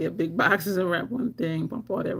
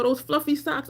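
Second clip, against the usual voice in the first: ordinary talk, nothing marked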